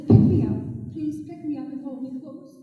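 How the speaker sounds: a frozen snake begging to be held; pleading snake. Acted. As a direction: snake asking the boy to pick it up, pleading. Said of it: "And the snake said".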